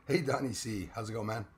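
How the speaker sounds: usual speaking voice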